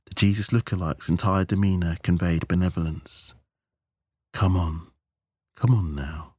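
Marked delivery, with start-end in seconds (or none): 4.3-6.3 gentle coaxing call; summoning a pet. A narrator's reading. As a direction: coax as if calling a pet. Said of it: "as if summoning a pet".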